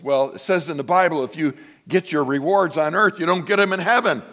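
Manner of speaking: retold indignant church member; lightly mimicked complainer; scolding caller. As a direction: lecture the pastor, pitch climbing.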